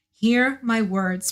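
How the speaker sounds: solemn prayer. A narrator's reading. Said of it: "prayed Ariel".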